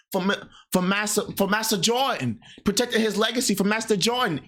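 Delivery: lightly voiced groveling plea; servile mock voice. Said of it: "You see how you sound?".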